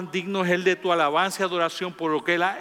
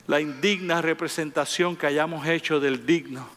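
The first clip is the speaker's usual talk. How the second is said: earnest spoken prayer to God. Acted. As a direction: pray it, devoted and steady. Pastor prays aloud to God. (oración sincera y devota)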